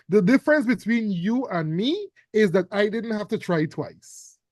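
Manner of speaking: stern Mama voice. Acted. Teacher reads Mama's lines.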